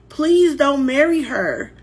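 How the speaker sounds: slow, high, loud plea; mild scream. A narrator's reading. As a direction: cry it out, drawing out the plea. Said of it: "She screamed in the phone".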